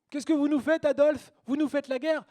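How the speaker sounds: high, loud mock protest; acted high-pitched shouted question; alarmed outcry. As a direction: cry out to the leader in disbelief. Acted outcry addressed to Hitler.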